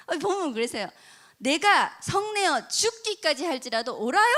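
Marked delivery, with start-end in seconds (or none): 1.4-4.3 slow, louder stubborn answer; defiant talk-back. Retold or imitated. Jonah defying God, slow stubborn retort. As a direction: dig in your heels, word by word. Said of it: "이렇게 대드는 거예요".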